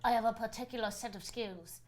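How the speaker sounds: a hint of a menacing action hero; Liam Neeson. Co-host quotes Taken to friend, light movie impression. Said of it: "I also like Liam Neeson".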